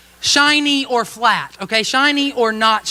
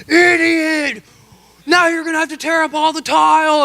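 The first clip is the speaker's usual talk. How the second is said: higher, sharp scolding shout of Idiot; angry wife; 6 semitones higher than usual. Retold or imitated. Wife yells at husband over paint on tile, angry. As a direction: snap at him like a furious wife.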